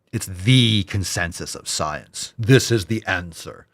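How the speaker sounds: slow, prissy imitation of the nutritionist; mock know-it-all. Vlogger mocks the nutritionist's claim in a slow, smug imitation. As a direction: parrot her smug certainty slowly. Mocking the clip woman's line.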